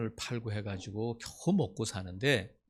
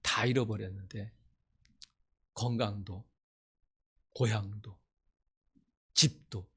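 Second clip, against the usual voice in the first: solemn recitation. Acted. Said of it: "그걸 간증하는 거야".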